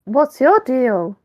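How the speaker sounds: slow put-on Ken line; macho Ken voice. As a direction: drawl it out as a cool Ken. Player voices Ken character.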